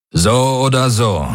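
höher und fester, bestimmt; entschlossen. Acted. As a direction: mit Nachdruck wiederholen. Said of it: "wiederholte Daraios entschlossen". (Daraios wiederholt Garlands Worte, entschlossen)

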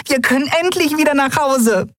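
high, joyful cheer, leaning on endlich; overjoyed that they can finally go home; jubilant. Acted. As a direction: cheer it again with pure joy. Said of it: "jubelte sie".

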